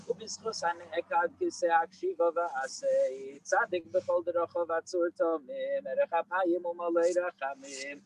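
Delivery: steady recited Hebrew prayer; hushed graveside prayer. Acted. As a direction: recite the prayer at an even, devout pace.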